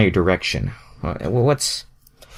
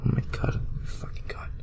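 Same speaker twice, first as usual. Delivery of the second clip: whisper; 12 dB quieter than usual. Real, not acted. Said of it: "aside whispered".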